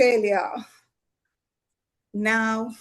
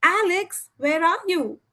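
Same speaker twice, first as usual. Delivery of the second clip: put-on a mom yelling for her late kid, higher; screaming mother; 5 semitones higher than usual. Mom calls son down to breakfast, mild shouted call. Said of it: "his mother screaming".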